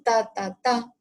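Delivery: ta-ta-ta marcando los ruidos cardíacos; imitación del tercer tono. Shown as a demonstration. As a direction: imita con la voz el ritmo del corazón. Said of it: "es decir, segundo ruido, tercer tono". (tres golpes de voz, como latidos)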